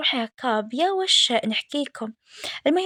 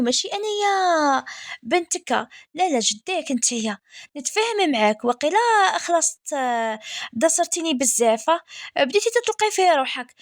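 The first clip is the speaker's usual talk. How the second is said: playful mock scolding; 3 semitones higher than usual. Mock scolding quarrel with husband, retold.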